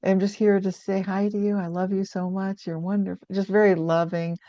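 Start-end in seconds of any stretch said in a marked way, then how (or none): 0.0-3.3 softly reassuring. Retold or imitated. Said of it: "she was just reassuring".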